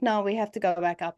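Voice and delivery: mild retold monotone; emotionless monotone. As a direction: repeat it with no emotion. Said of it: "She's completely monotone".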